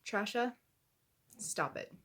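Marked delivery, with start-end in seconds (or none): 0.1-0.5 "Trasha" said as a pointed mocking twist of Trisha, slightly rising; mocking nickname. Real, not acted. Vlogger signing off with an insult nickname, mocking. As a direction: sneer the name "Trasha" on purpose. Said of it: "And yes, I said Trasha".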